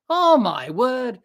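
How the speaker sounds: slow, drawn-out astonished sigh; amazed. Real, not acted. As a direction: marvel at it. Amazed at Maxwell's innings.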